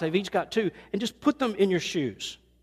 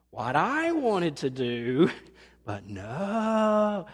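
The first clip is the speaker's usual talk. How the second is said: laughing mock sulk; much slower than usual. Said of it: "You ever done that to the Lord?".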